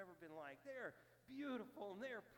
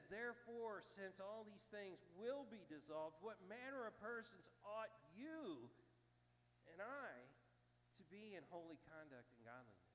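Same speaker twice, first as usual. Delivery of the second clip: emphatic scripture reading. Acted. Pastor pressing the verse on the congregation, emphatic. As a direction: press the question home to the church. He says.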